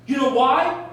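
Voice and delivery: loud, high, slow and furious; angry shout. Acted. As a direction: bark it down at him. Howard berates Chimezie.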